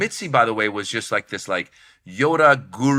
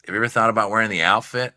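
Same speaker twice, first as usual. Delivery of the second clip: lightly imitating the club owner; quick question in a slightly put-on voice; a hint of the guru boss making a suggestion; Mitzi; faster than usual. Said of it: "that's how she talks".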